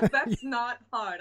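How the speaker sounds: slow, chuckling through the words; amused by the host's teasing; laughing. Real, not acted. Laughs at host's brag remark.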